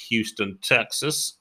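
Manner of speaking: light, badly faked Texas twang; a hint of a hammy Texan accent; dreadful Texan accent. Host announcing the venue in Houston, dreadful Texan accent. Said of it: "impression of a Texan accent".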